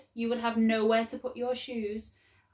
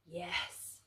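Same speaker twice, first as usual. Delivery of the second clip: much softer, creaky dark; a cold, distant yes; the dark's voice; 3 semitones lower, 13 dB quieter than usual. A narrator's reading. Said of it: "The voice of the dark was as creaky".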